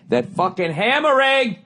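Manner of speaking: very high, drawn-out strained whine; exasperated high squeal. Acted. Exasperated rant about the hammering.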